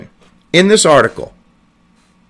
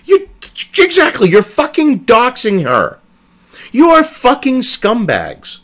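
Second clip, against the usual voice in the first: slow, higher, spitting each insult; angry outburst; 6 semitones higher than usual. Real, not acted. Ranting at reporters over the article, seething. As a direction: lash out at the journalists.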